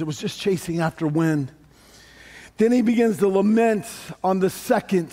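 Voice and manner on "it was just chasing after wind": rueful Solomon. Retold or imitated. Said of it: "he goes".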